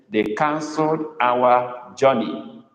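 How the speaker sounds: slow dictation. Shown as a demonstration. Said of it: "go on to make the next sentence".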